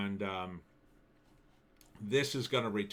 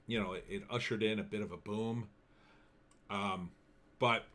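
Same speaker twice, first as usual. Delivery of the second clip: talking around chewing gum; chewing gum while talking; gum in mouth. Real, not acted. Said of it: "sorry, I got gum in my mouth".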